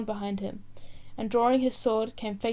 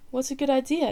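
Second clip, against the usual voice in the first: higher, louder bright exclamation; exclaiming; 4 semitones higher, 5 dB louder than usual. Acted. Prince spotting the orange seller, exclaiming. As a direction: seize on the idea eagerly. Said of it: "exclaimed the prin".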